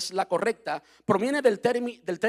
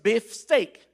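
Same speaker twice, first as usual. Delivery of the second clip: "beef steak" said very slowly, word by word; slow spelled-out English; 2 semitones higher, 4 dB louder than usual. Shown as a demonstration. Pastor shows the congregation the origin, slow and deliberate. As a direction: stretch out "beef steak" to show the two English words. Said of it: "unieron la palabra".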